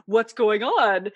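slow, lightly voiced suspicious mom. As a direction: drag it out like a nosy mother. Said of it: "my mom is totally about that".

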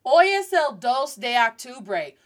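octubre said "ahk-TOO-bray"; mispronounced Spanish. Shown as a demonstration. Teacher modelling a learner's date in Spanish, octubre mispronounced as "ahk". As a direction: give octubre an English open first vowel. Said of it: "they will pronounce this word as".

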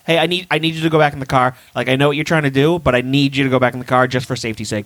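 fast, even and reasonable, like a calm request; calm polite cop. Retold or imitated. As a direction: ask nicely, explaining it's for safety. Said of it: "if he was like".

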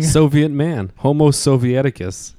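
mock Soviet accent; stupid Russian accent. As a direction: put on a hammy Russian accent. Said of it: "stop doing that stupid accent".

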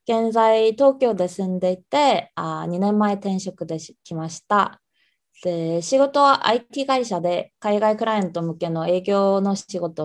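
slow, careful formal Japanese; polite Japanese self-introduction. Shown as a demonstration. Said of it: "일본어로 간단하게 자기소개 부탁해도".

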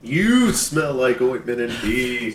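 drawn-out playful jeer; mock taunt. Co-host imitating a cartoon insult, slow mock taunt. Hosts trade takes on cartoon line.

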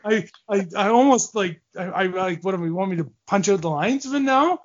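pitched high, half-laughing disbelief; retold exasperation. Player telling the owner he has nothing left, exasperated. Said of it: "I go".

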